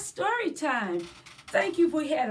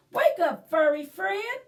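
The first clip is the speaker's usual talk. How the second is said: lightly voiced chirping bird, higher; chirpy bird; 4 semitones higher, 3 dB louder than usual. Bird waking the cat, lightly voiced chirpy call. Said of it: "the bird chirped".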